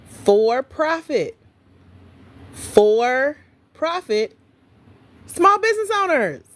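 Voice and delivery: each word slow and spelled out; slow, deliberate emphasis for the audience; said slowly. Shown as a demonstration. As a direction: stretch it out so nobody misses it. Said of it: "Let me say it again slowly".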